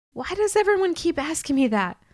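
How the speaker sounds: high, irritated snap; fed up with the question; exasperated. A narrator's reading. Irritated outburst.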